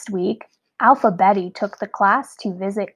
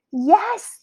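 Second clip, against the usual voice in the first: squeal; 10 semitones higher than usual. A narrator's reading. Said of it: "the class squealed".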